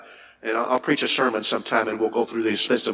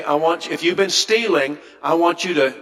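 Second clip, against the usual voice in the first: mock misquote; 5 semitones higher than usual. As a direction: parody the wrong reading of the verse. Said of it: "Now, he didn't say".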